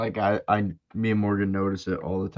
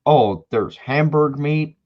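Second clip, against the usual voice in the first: put-on southern accent; 3 semitones higher, 3 dB louder, slower than usual. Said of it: "I'm giving them that accent".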